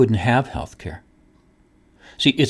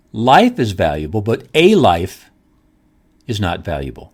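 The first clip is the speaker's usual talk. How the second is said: life is valuable said rising, then but a life slowed and leaned on; contrastive stress; 4 semitones lower than usual. Shown as a demonstration. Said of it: "There's a difference".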